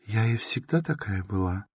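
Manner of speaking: put-on shy girl answering quietly; timid young woman, softly; timid young Sonya. A narrator's reading.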